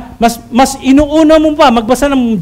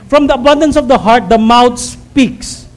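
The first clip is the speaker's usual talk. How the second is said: slow quote. Shown as a demonstration. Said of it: "No, naman po natin".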